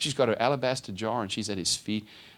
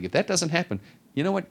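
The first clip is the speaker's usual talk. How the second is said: indignant ultimatum; 8 semitones higher than usual. Retold or imitated. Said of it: "we're like".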